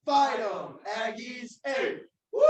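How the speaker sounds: loud shouted yell lines. Shown as a demonstration. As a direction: shout them out full force. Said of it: "here's the yell".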